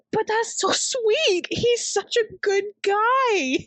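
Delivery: high, slow gushing; mock swooning, high and slow. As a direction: swoon over him. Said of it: "And I'm like".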